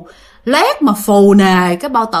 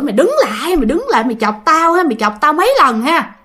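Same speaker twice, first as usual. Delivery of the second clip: chửi; 5 semitones higher, faster than usual. Retold or imitated. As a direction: yell after a fleeing prankster, mock-angry. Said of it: "ổng chửi". (giả giọng chửi đuổi theo, cao và gắt)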